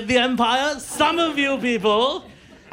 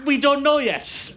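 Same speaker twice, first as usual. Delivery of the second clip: mock coloniser; 4 semitones higher, slower than usual. Acts British colonisers answering Indians.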